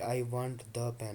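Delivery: slow demo leaning on "the"; "I want the pen" said slowly with "the" weighted; stress on the. Shown as a demonstration. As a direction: hit "the" slowly, for this exact pen. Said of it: "मुझे यही pen चाहिए".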